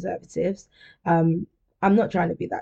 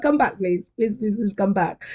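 mock pleading; 3 semitones higher than usual. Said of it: "like a stalker boyfriend".

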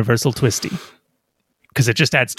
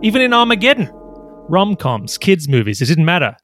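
trailer voice-over; 3 semitones higher than usual. Acted. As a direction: announce it like a blockbuster trailer. Reads pitch as trailer voice-over.

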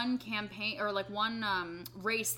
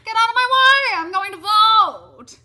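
high, loud sing-song silly shout; silly clown; 12 semitones higher, 15 dB louder than usual. Pretend. Silly shouted sung voter character.

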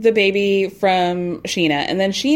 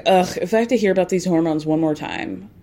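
eye-rolling; 3 semitones lower than usual. Retold or imitated. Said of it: "Brock rolls his eyes and is like".

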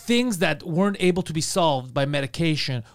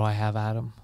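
whisper; 7 semitones lower, 5 dB quieter than usual. Real, not acted. Dropping into despair about Adam.

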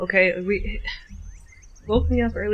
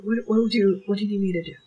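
whispering; faster than usual. Acted. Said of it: "whispering into the dog's ear".

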